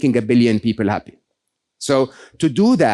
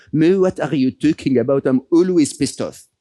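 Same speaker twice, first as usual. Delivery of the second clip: French accent imitation. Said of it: "in his very French accent".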